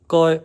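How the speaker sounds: "koy" said high and loud in Cantonese tone; Cantonese goi. Shown as a demonstration. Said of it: "The negation word".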